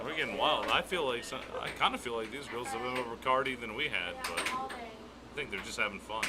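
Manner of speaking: hoarse from a cold; scratchy, cold-worn voice. Real, not acted. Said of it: "She has a bit of a scratchy voice".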